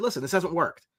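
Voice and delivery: plain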